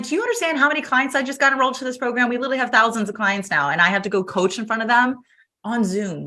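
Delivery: high, hurried incredulous retelling; panicked protest. Retold or imitated. Retold protest at being made coach.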